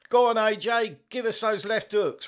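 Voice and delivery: high, loud ringside hype call; booming boxing promo voice; hype announcer. Acted. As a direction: pump up the crowd like a fight announcer. Introducing training clip, hyping.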